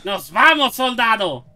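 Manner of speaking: Russian soldier. Pretend. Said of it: "madre Rusia".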